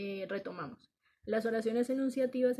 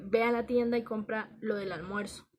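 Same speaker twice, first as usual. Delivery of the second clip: order; 5 dB louder than usual. Shown as a demonstration. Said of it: "estoy dando una orden".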